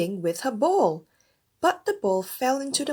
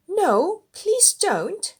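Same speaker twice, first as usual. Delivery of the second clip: pleading princess; 11 semitones higher, 5 dB louder, slower than usual. A narrator's reading. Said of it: "said the princess".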